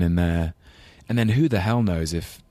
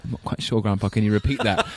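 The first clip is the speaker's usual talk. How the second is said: put-on polite, baffled London English accent, slightly higher; 3 semitones higher than usual. English grandson who cannot follow his Glaswegian grandpa, politely baffled London accent. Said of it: "with my very English London accent".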